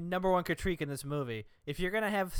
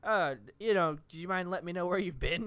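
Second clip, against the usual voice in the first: polite ask. Retold or imitated. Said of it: "He's, like, very congenial".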